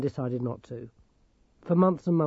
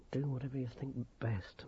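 muttered; 13 dB quieter than usual. Acted. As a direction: grumble it under your breath. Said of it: "muttered a gnome".

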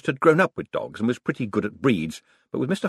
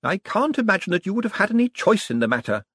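put-on high old lady voice; old lady, delighted; 11 semitones higher than usual. A narrator's reading. Old lady praising Moist, high and delighted. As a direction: praise him with glee. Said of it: "said Missus Lavish".

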